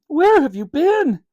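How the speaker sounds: high, slow, loud plea; a mother demanding where her boy was; upset. Acted. Mother's relieved reproach.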